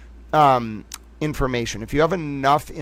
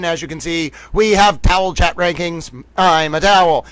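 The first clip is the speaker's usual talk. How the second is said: 1940s newsreel announcer; 3 semitones higher, 3 dB louder than usual. Acted.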